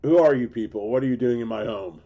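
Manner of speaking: fast, loud, outraged shout at intruders; angry homeowner yell. Pretend. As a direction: play the furious homeowner. Mock homeowner ejecting intruders, then kidding.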